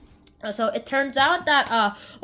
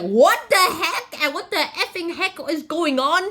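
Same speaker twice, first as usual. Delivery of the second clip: confused outburst; 3 semitones higher, 3 dB louder than usual. Acted. Hermia confused by both suitors, hammed-up bafflement. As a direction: act comically baffled and indignant. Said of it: "so Hermia's very confused".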